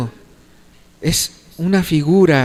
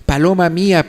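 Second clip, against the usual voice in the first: mildly raised pleading call; lightly acted calling; 3 semitones higher than usual. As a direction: call out to a beloved behind a door. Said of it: "dando voces".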